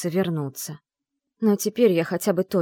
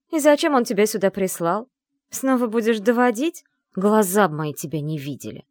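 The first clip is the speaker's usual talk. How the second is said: louder, higher contemptuous scolding; disdainful; 4 semitones higher, 5 dB louder than usual. A narrator's reading. Brunette scolds the unwanted wife, louder disdainful sneer. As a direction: sneer at her with distaste. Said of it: "брезгливо проговорила".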